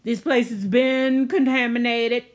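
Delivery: mock announcement voice. Announcement to the bunker, mock PA alert. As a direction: play it like a PA alarm. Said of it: "your announcement saying".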